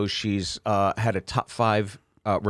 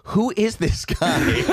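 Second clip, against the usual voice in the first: higher, slow laughing woman's voice; mock incredulous woman; 9 semitones higher, much slower than usual. Woman at the bar baffled by Sherrod, laughing. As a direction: ask it amused and baffled, slowly. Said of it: "I did hear her say".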